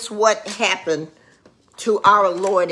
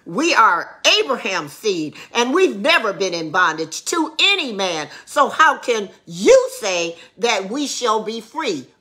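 sarcastic; 2 semitones higher than usual. Retold or imitated. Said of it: "they answered him sarcastically".

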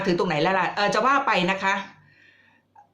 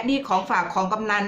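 mock gift offer; 3 semitones higher than usual. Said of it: "อะไรอย่างเงี้ย".

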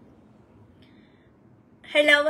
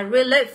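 "relief" with the stress on LIEF; stress on second syllable; 4 dB louder than usual. Shown as a demonstration. Teacher showing students a word, second-syllable stress on "relief". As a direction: say "relief", leaning on the long ee. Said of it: "nhấn vào âm số hai".

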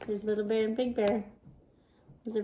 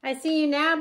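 mild shout; 4 semitones higher, 4 dB louder than usual. Acted. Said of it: "Little Bear shouted".

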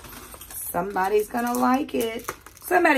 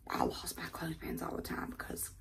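whisper; 7 semitones lower, 16 dB quieter than usual. Real, not acted. Aside in a whisper.

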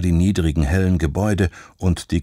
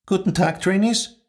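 high, formal greeting of a strict head of school; stern headmistress; 12 semitones higher than usual. Acted. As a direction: greet the class from above.

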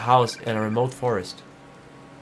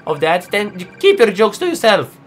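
angry; 5 semitones higher, 5 dB louder than usual. Acted. Angry at stranger.

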